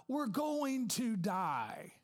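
drawn-out mock wail of doom; mock panicked yell. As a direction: imitate a passenger crying out, stretched out. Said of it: "yells out".

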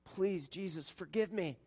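soft pleading prayer; humble prayer. Shown as a demonstration. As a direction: plead quietly for forgiveness. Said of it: "You can say".

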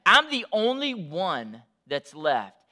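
slow grieving lament; grief. Acted. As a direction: let the loss weigh each word. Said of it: "he moves into grief".

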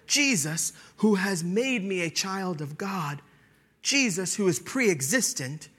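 fervent preaching. Acted. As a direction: build each "Jesus" with fervor. Building litany of Jesus.

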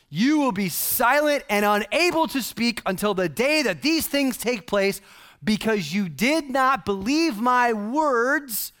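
slow, weighty pronouncement; solemn angel decree. Retold or imitated. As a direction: lay down the sentence slowly. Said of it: "And behold, buckle up, dude".

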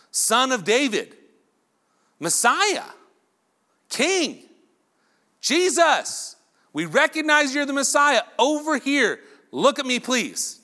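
high, loud calling out; calling from far away. Retold or imitated. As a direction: shout to be heard over a crowd. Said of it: "They're so loud".

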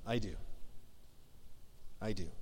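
soft, low I do; whisper-close heartfelt vow; gentle wedding I do; tender vow. Retold or imitated. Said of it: "We said".

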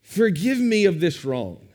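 a touch of dry sarcasm in the apology; sarcastic. Retold or imitated. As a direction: apologise with mock regret, lightly. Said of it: "Paul sarcastically in verse thirteen says".

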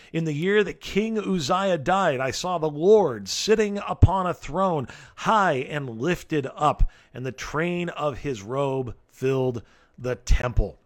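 slow, solemn reading of the vision; scripture reading. Acted. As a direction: read it like a solemn proclamation. Reads scripture aloud.

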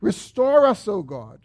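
mild plea. Acted. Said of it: "He's saying".

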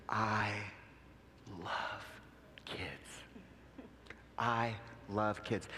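soft, low, halting delivery with long pauses; choked-up words, gently imitated; emotional, retold. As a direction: retell a heartfelt confession, hushed and slow. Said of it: "Why are you getting so emotional?".

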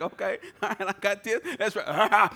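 loud, laughing self-hype; cocky laughing boast. Retold or imitated. To himself, building the fireplace, loud laughing swagger. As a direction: pump yourself up, laughing and loud. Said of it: "I'm kinda like".

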